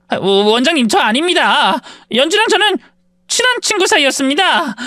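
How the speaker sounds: bully panicking in front of the hospital director; flustered panic. Acted. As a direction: scramble to deny it.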